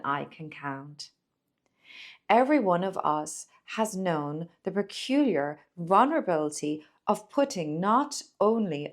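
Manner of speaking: measured reading with lifted key words; read-aloud essay. Acted. Presenter reads a poetry book's advice to viewers, measured read-aloud. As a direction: read it out deliberately, pausing between phrases.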